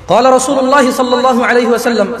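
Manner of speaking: slow, measured Arabic recitation; Arabic hadith recitation. Acted. Preacher reciting hadith to congregation, slow devout recitation. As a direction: chant the hadith slowly and devoutly.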